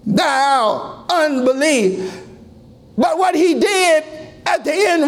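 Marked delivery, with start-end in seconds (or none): 0.0-2.1 slow mournful plea. Acted. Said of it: "And he's crying".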